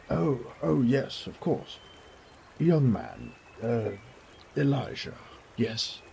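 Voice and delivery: put-on high flustered old man; the baron suddenly remembering the guest; flustered realization. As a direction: caught out, scrambling politely.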